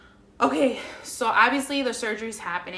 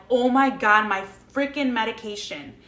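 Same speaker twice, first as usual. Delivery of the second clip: loud burst of mock panic, then easing; retold alarm; 6 dB louder than usual. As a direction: blurt out a remembered sudden realization. Sudden realization before surgery, retold.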